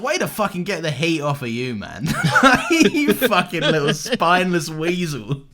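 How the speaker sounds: mock insult, laughing. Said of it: "And I'm like".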